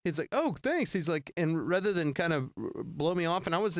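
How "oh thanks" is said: imitating a rock star. A rock musician voiced.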